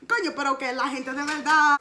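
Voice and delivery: fed up, venting in Spanish; exasperated. Retold or imitated.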